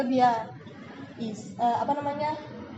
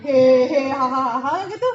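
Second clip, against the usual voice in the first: loud burst of laughter; laughing; 10 dB louder, much slower than usual. Shown as a demonstration. Coach shows how a funny chat should sound, laughing loudly. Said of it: "lucu kan".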